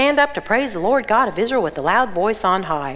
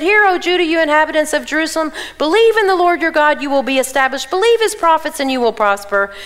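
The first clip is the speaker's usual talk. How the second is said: proclaiming; 5 semitones higher, 3 dB louder than usual. Acted. King proclaims to the people.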